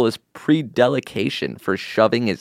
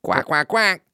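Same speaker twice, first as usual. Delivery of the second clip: quacking like a duck, higher; 6 semitones higher than usual. Acted. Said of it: "that quacking".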